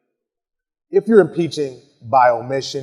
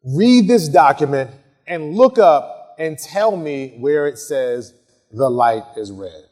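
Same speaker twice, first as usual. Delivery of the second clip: slow firm instruction; 5 dB louder, slower than usual. Shown as a demonstration. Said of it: "Or another".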